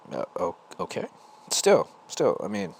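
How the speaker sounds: hesitant, halting agreement; cautious. Retold or imitated. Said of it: "still very cautious here".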